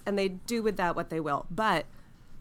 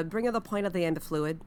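Australian; 2 semitones lower than usual. Shown as a demonstration. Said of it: "the Australian sentence".

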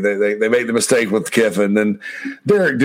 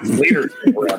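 mock squeaky echo; 14 semitones higher than usual. Mocking quote with laughter.

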